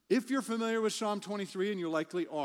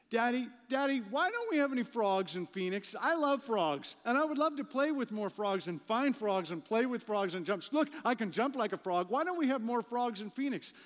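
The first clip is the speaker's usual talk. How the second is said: put-on curious child; 4 semitones higher than usual. Child voiced in a story.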